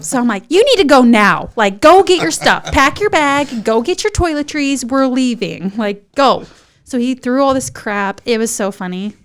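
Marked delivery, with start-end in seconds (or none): 0.5-6.4 loud urgent orders; bossy mock yell, easing toward the end; retold yelling. Wife in labor hurrying husband out, yelling. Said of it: "I was, like, yelling at him".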